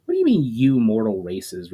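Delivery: mildly affronted elf; slightly indignant. Acted. Valinor bristles at the demon, slightly indignant. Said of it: "with a slight touch of indignity".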